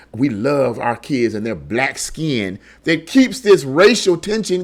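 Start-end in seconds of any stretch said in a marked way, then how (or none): 0.1-2.6 lightly mocking quote, slow, lower and softer; Jennifer Lewis. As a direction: drag it out quietly, lightly imitating someone. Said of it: "people like Jennifer Lewis that say".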